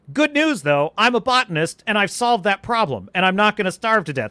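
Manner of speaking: breezy, pleased-with-himself narration; mock upbeat movie hero. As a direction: rattle off problems like they're nothing. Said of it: "the experience of the movie was".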